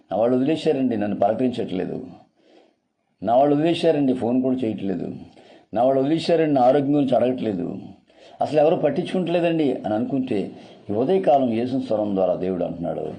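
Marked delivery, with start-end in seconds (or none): 0.1-9.7 lonely lament. Acted. Voicing an abandoned lonely person.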